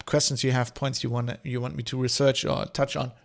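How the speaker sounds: gulping down coffee mid-talk. Real, not acted. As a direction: talk between gulps of coffee. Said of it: "Sorry, I'm gulping down coffee".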